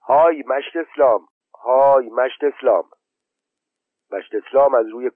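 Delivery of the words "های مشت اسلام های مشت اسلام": higher, raised call across the yard; shouting a name. Acted. Mother calling Eslam from the room, a mild shout. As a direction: hail him from inside the room. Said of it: "داد زد".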